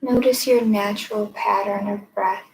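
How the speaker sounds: measured meditation guide, long pauses between phrases; guided meditation. Acted. Meditation teacher leading listeners to notice their breath, unhurried guided meditation. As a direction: guide them gently inward, leaving space after each phrase.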